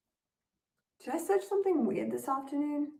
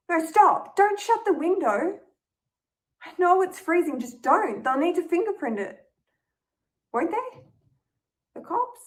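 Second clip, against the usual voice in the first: much higher and louder, frantic; panicked pleading; 7 semitones higher, 6 dB louder than usual. Acted. Michaela begging Ella not to shut the window, frantic panic. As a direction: blurt it out in rising panic. Housemate panicking after burglary.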